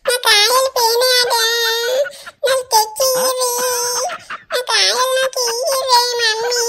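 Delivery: slow, whiny sobbing plea to mommy; acted child crying. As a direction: cry like a child whose treats were taken. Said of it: "ఎందుకు ఏడుత్తన్నావు". (ఏడుపుతో పిల్లవాడి మొర)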